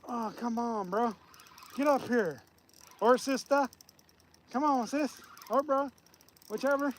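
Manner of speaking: hushed pleading with the fish; fishing whisper. Real, not acted. Coaxing the fish to surface.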